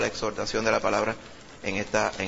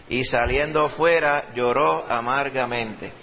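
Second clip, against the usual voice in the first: scripture reading; 3 semitones higher, slower than usual. Acted. Preacher reads the Gospel to the standing congregation, slow and declamatory.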